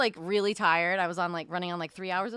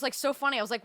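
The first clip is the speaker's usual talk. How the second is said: usual speaking voice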